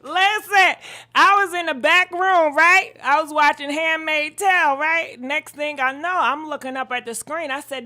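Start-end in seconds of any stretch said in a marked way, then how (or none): 0.0-4.8 loud, panting storytelling; gasping between phrases; out of breath. Real, not acted. Telling viewers why she ran back, breathless. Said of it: "I'm out of breath".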